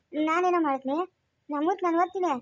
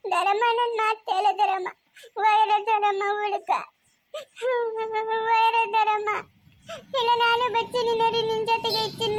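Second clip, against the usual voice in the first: tearful pleading. Acted. Girl pleading with the leaving aunt, tearful. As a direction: hold her back with tears.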